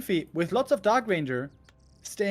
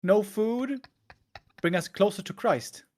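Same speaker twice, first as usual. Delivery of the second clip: normal talking voice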